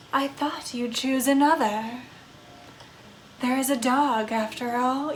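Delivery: a lonely undead woman drifting through her sorrows; brooding vampire ghost. Acted. Vampire character.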